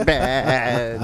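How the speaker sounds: drawn-out bleated vowel; imitated mummy vowel. Host mimicking the recreated mummy sound, drawn-out bleat. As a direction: stretch it into a mummy's moan. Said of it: "the vowels of bed and bad".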